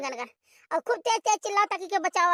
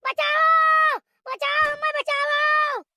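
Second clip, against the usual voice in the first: crying for help; 8 semitones higher, much slower than usual. Acted.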